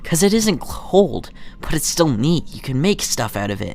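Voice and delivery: lightly voiced kid explaining; child friend. Voicing child friend in game.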